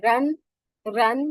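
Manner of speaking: "রান" with an a vowel despite the spelling; pronunciation demo. Shown as a demonstration. Teacher models the word for "person", careful pronunciation demo. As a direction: say "রান" singly with an open a. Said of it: "এটা উচ্চারণ কি হবে?".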